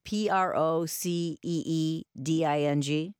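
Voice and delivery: spelling it letter by letter, slowly; spelled out. Shown as a demonstration. Host asking caller to confirm the word, spelled slowly. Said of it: "are you saying the word".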